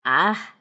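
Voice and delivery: low gasp of wonder; Big Ears gasping at his bike. A narrator's reading. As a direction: gasp in delight. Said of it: "Big Ears gasped".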